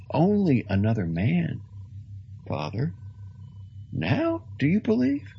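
high, earnest preaching priest; fervent old priest. Acted. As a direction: persuade him with conviction. Peregrine's voice held in dialogue.

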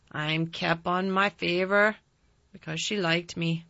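put-on Yorkshire old man. A narrator's reading. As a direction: play a crusty old Yorkshireman. Old gardener voiced.

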